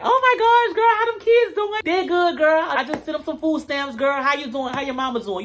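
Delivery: put-on very high, squealing gossip-girl voice; mock ghetto girl greeting. Mocking the girls as they greet each other, squealing high. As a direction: squeal it like catty girls catching up.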